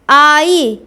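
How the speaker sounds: आई leaned on, stretched "aa-ee"; stressed vowel. Shown as a demonstration. Teacher showing the igh sound, आई said with some force. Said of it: "थोड़ा जोर देके".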